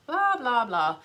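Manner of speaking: mocking, waving off the ad; dismissive blah blah. Real, not acted. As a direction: brush the ad away with scorn.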